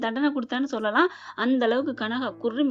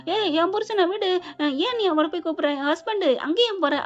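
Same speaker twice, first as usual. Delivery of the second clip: higher, whiny claim on her husband; childish protest; 6 semitones higher than usual. Retold or imitated. Childlike bride protests to the rival, higher whiny voice. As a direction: squeal at the rival to let him go.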